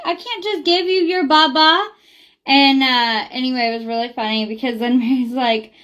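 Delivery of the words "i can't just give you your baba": put-on baby talk. Mom talking sweetly to toddler.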